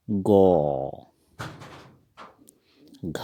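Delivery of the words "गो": गो said with a rounded o vowel, Assamese style; गो as Assamese go, not Hindi ga; Assamese letter go. Shown as a demonstration. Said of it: "ग को हम असमिया में पढ़ेंगे". (असमिया उच्चारण में गो)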